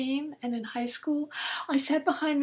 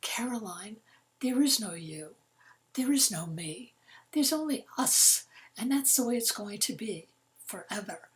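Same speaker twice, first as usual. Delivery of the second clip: gently. Retold or imitated. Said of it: "And he very gently said".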